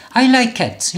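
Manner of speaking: I like cat with like as one syllable; no extra vowel after like or cat; acceptable English. Shown as a demonstration. Teacher shows the part learners get right, clean English. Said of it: "이렇게 발음합니다".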